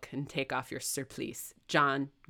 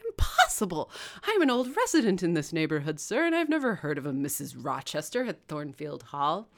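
indignant disbelief; 3 dB louder than usual. Acted. Clergyman protests.

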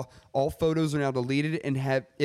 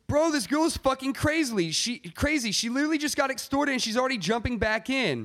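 shocked disbelief; 11 semitones higher than usual. Retold or imitated. Reading Dylan's shocked story comments.

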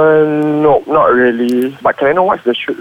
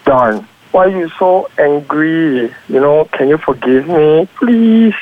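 lovey-dovey. Shown as a demonstration. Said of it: "play like a lovey-dovey couple".

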